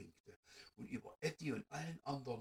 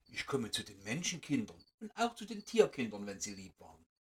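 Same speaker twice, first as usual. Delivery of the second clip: sanfte, leicht gespielte Feenstimme; gute Fee; 4 semitones lower than usual. Acted. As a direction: wie eine freundliche Fee, die Kinder beruhigt. Fairy speaks to the mice. (Fee spricht zu den Mäusekindern, leicht sanft gespielt)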